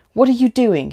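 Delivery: sharp, loud barked question. A narrator's reading. Han barks at Amanda driving madly. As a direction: bark it at the reckless driver. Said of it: "he barked".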